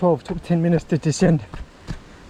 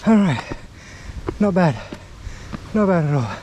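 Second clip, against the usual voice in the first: panting after a steep climb; breathless, words squeezed between breaths; heavy breathing; 3 semitones higher than usual. Real, not acted. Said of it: "Fuck, my lungs are burning".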